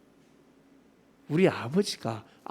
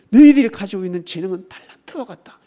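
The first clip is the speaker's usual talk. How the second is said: 너희들이 hit hard, the whole line much louder; preaching shout; 13 dB louder than usual. Acted. 설교자가 신도들에게 하나님 말씀을 크게 외치듯. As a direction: thunder it at the congregation. Loud repeat of God's words.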